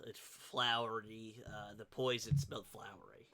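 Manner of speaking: peculiar halfling character voice; halfling village voice. Acted. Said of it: "but if you sound like that".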